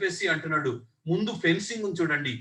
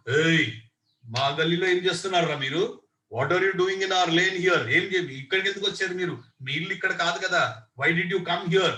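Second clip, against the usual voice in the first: loud, menacing challenge to intruders; rough gang-leader confrontation; bully's challenge; 3 dB louder than usual. Acted. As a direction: bark at the kids to get out of your lane. Bully confronts kids in his lane.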